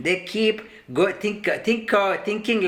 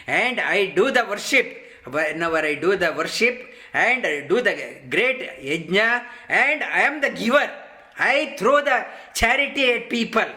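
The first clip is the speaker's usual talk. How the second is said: boastful rich man. Retold or imitated. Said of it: "and they talk like this".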